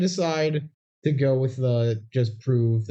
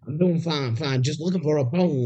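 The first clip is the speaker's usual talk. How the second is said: a lightly voiced doggy man, pitched up; mild imitation of the dog voice from the film; Jack channeling the dog; 4 semitones higher than usual. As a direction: mimic a man talking like an eager dog. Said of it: "they do this voice whenever he's channeling Lucky".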